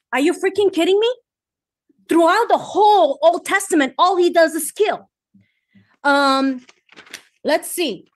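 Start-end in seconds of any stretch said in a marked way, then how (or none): 0.1-5.1 fired up. Real, not acted. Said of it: "I'm getting fired up".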